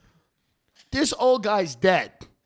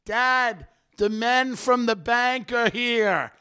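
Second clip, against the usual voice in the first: higher, drawn-out mock yell; retold screaming; 5 semitones higher, much slower than usual. Son to his out-of-it father at the closing, mock screaming. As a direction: imitate yelling slowly at an old father. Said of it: "he's, like, screaming in his father's face".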